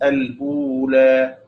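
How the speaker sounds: slow الأولى with the hamza, "al-ula"; like Hafs. Shown as a demonstration. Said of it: "مثل حفص".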